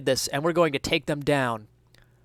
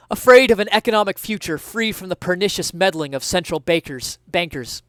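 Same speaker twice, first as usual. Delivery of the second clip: raised thief voice; 5 semitones higher, 5 dB louder than usual. Acted. Thief explains his fear.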